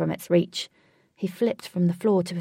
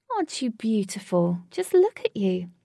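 adoring; 2 semitones higher than usual. Acted. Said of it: "Katie said adoringly".

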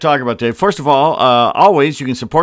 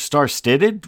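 puzzled repeat; 2 semitones higher than usual. Real, not acted. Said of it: "What, what did I just say?".

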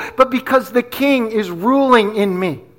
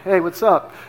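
low-key, lower-pitched cool greeting; playing it cool; 4 semitones lower, 4 dB quieter than usual. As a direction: act like a casual, cool guy. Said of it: "I knew how to be cool".

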